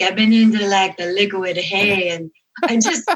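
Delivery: mock tipsy mascot voice. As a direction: imitate someone slightly drunk, in a comic accent. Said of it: "he sounds kind of tipsy".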